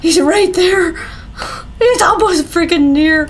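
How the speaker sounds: high, urgent panic; rising alarm at the threat; panicking gamer. Real, not acted. Freddy approaching, player panicking.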